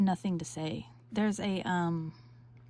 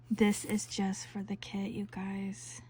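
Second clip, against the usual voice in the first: whisper; 6 dB quieter than usual. Real, not acted. Whispering over the kit.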